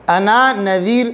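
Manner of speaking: انا نذیر drawn out slowly, both نون sounded clearly; slow recitation. Shown as a demonstration. Teacher showing a Quran word to the student, slow recitation. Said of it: "انا یہ دو نون ہے نا".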